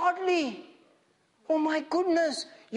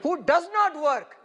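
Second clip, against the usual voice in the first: slow, deliberate, emphatic verse reading; slow lead for repeating; slower than usual. Shown as a demonstration. Preacher has congregation repeat after him, slow and firm. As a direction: give each word room for echoing. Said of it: "now repeat after me".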